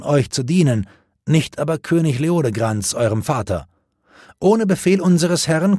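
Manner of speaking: high, firm polite refusal; a loyal knight refusing firmly. Acted.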